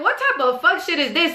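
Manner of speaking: high-pitched exasperated disbelief, not shouted; retold irritated outburst. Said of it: "I'm mad, I'm irritated".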